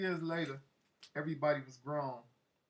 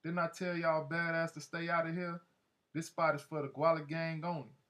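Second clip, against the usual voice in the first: mildly raised, confrontational telling-off; aggressive tone; 3 semitones higher than usual. Retold or imitated. Gang leader ordering boys out of his spot, mildly aggressive. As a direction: imitate a gang leader laying down the law. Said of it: "with aggressive tone was like".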